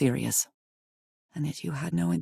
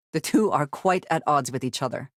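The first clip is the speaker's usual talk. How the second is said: whispered aside. Acted.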